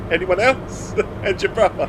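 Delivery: high mock voice through giggles; laughing high voice. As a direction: squeak it out while laughing. Reading chat's mum jokes aloud.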